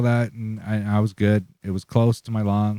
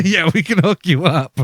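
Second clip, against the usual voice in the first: put-on little old lady; 8 semitones higher, 4 dB louder than usual. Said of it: "And they're like".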